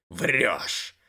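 growled accusation; рычит. Acted. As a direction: snarl a denial. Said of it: "рыкнул Майнер". (рычит «Врёшь!»)

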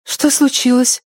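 put-on high anxious young girl; worried girl. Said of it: "обеспокоенно спросила Зои". (Зои встревоженно спрашивает Робин, высокий тревожный голос)

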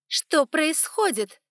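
loud, slow, high bark. Acted. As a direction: snap it out like a command. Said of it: "рявкнула она".

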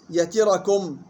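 يتركم as "yatirakum"; kasra then fatha. Shown as a demonstration. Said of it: "كسر التاء وفتح الراء". (يتركم بكسر التاء وفتح الراء)

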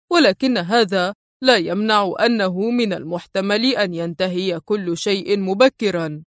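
understated calm. Acted. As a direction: answer calmly, sure of himself. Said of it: "في هدوء".

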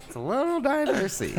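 high squeaky mockery; high mocking voice. Mocking quote, high pitch.

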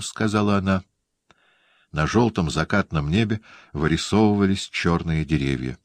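ordinary delivery, nothing marked

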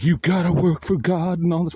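lightly voiced church scold; preachy scold. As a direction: parody the church folk's duty talk. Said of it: "they're like".

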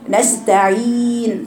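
نستعين slowed with a held nasal نون; teacher showing nasal ghunna to the students. Shown as a demonstration. Teacher demos the ghunna in نستعين. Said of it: "في النون مثلًا إيه".

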